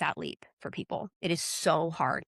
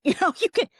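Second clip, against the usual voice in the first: laughing; 13 semitones higher, 6 dB louder, faster than usual. Real, not acted. Laughing burst.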